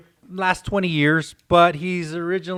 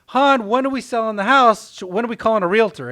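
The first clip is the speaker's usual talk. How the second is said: higher, eager wife asking her husband; 5 semitones higher, 4 dB louder than usual. Retold or imitated. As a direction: ask him brightly about selling. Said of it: "And she says".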